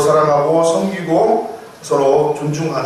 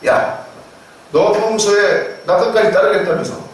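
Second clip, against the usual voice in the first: mock scolding; 4 semitones higher than usual. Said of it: "베드로를 책망했을 수 있을 것 같습니다".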